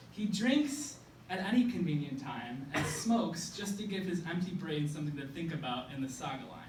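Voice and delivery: measured spoken-word recital with punched phrase openings; slam poem. Acted.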